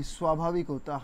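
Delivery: स्वाभाविक, soft and light on the vowel; lightly said. Shown as a demonstration. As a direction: say स्वाभाविक gently, no stress on the matra. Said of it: "हल्के, हल्के से बोला जाता है".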